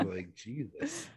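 sleepy and fading; drowsy, half asleep mumble; nodding off. Real, not acted. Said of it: "I'm falling asleep right now".

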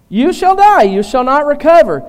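loud, high-pitched verdict; emphatic pronouncement. Retold or imitated. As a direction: proclaim the sentence forcefully, starting high.

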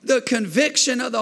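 full-force pulpit preaching. Acted. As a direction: lift the room with it. Preaching over music.

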